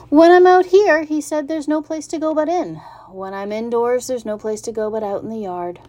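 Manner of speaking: high, whiny little pig voice; young pig grumbling that he's stuck; bored young pig. Acted. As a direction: complain like a restless young pig. Wilbur complains about being bored.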